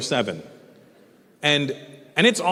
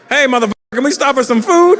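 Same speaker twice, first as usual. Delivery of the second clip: put-on cheerful kid; 9 semitones higher, 12 dB louder than usual. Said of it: "Try it".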